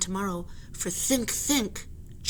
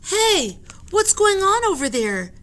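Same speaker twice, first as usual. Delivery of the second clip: calling out; 11 semitones higher, 8 dB louder than usual. Acted. Annie calling out on deck.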